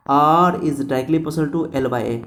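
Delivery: very slow, word by word; slow dictation. Shown as a demonstration. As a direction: spell out the formula slowly for notes. Teacher dictating the final formula. (धीरे-धीरे लिखवाते हुए)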